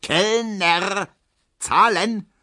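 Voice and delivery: calling the waiter. A narrator's reading. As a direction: call 'Kellner' across the beer garden. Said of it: "ruft Herr Ziebland".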